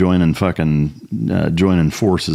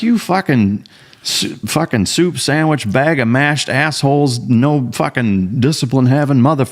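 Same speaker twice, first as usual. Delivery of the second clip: high-pitched drill instructor chew-out; 8 semitones higher, slower than usual. Retold or imitated. Marine dressing down young boat-crew mate, drill instructor impression. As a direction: dress down a recruit, imitating a boot camp instructor. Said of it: "like you were a fucking boot, boot camp fucking drill instructor".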